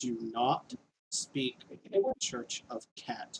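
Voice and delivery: seething, steaming-angry, furious voice with swooping pitch. Voicing a halfling scolding a player in a dog church: steaming anger. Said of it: "looks at you with steaming anger on its face".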